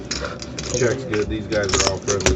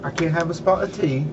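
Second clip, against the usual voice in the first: high, hammed-up British accent; mock British accent asking for tea; fake British accent; 5 semitones higher than usual. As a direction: overdo a silly British accent. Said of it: "'Cause you sound atrocious".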